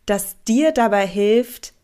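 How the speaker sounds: normal talking voice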